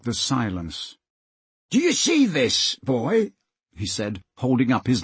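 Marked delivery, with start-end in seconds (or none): 1.7-3.3 high, taunting call; threatening villain. Acted. Slank shows Peter his knife, high threatening call. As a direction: call across to him with menace.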